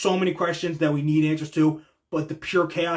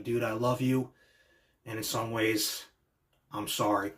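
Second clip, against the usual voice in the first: soft, lower, heartfelt imitation; hushed affection with pauses; tender apology; 6 semitones lower, 7 dB quieter than usual. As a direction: quietly voice a sorrowful confession. Voicing a tender hug before betrayal.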